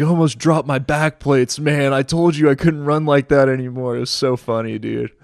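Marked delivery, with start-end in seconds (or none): 0.0-3.9 out of breath. Retold or imitated. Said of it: "Sean comes huffing around the corner".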